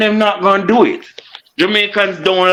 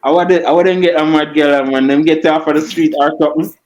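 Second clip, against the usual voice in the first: unconvincing Jamaican accent; put-on Jamaican accent. Real, not acted. Arguing back at a heckler in a put-on Jamaican accent. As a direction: talk Jamaican like an outsider trying it on. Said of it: "it sound like when white people start try to act, talk Jamaican".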